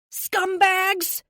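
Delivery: furious shout, high and loud; yelling. Acted. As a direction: spit the insult out loud. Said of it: "I yell at them through the window".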